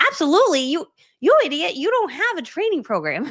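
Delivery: high, loud, disbelieving self-scold; horrified absolutely, calling yourself an idiot; panicked self-scolding. Retold or imitated. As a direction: realize the blunder and scold yourself. Panics after hanging up.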